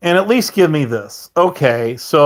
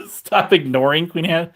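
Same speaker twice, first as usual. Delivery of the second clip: laughing. Real, not acted. Laughing while reading chat.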